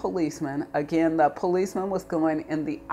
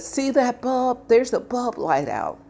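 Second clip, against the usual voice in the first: higher, slow, louder taunting cop voice; mocking officer; 9 semitones higher, 6 dB louder, slower than usual. Officer showing her the tiny dead bulb, smug. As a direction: drag it out like a smug cop pointing. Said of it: "And he said".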